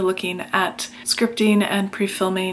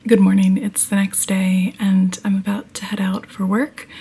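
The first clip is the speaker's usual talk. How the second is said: whispering; 3 dB louder than usual. Real, not acted. Early morning, cat sleeping.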